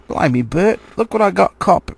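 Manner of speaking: troll showing off his catch, loud and pleased; gleeful troll call. A narrator's reading. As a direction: crow over the catch to Bert. Troll calls out to Bert.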